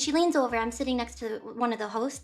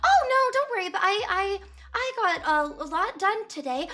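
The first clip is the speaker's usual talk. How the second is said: high nervous brushoff; 5 semitones higher than usual. Retold or imitated. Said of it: "And I was like".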